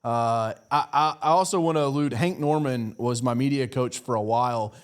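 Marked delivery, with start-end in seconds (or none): none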